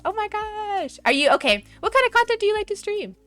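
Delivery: ordinary talk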